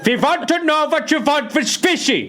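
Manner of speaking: put-on high, laughing German accent; German lady. The German beanie lady questioning the buyer in a high German accent. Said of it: "this is that German lady".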